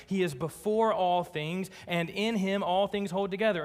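emphatic scripture reading, climbing in pitch. Acted. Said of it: "Paul, emphatic".

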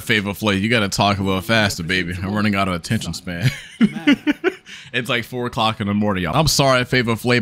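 ordinary talk, nothing marked

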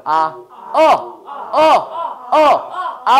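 "아", then repeated high "어!" between a and o; vowel drill. Shown as a demonstration. Teacher leading a vowel drill, moving from a to o. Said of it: "거기서 오 해봐요".

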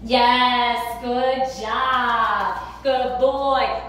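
loud happy praise for the dog; sing-song good job; excited praise. Real, not acted. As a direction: reward him with a loud cheer.

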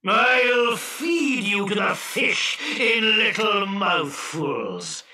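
high, slow genie bellow, falling at the end; booming, drawn-out giant's menace; bellowed threat. Acted. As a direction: bellow it out in long vowels. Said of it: "bellowed the genie".

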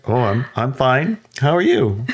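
lightly acted small talk; awkward politeness. Hiker and gnome trading greetings, awkwardly polite.

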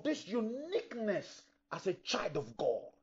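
sudden breathy whisper of awe. Real, not acted. Preacher whispers a key phrase.

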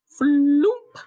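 loud, high falling-into-snow thump; flump sound. A narrator's reading. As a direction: drop the word like a heavy landing. Sound word for a fall.

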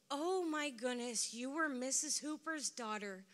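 imitating an excited old classmate; excited recognition. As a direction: burst out as if suddenly placing her. Retold excited recognition by customer.

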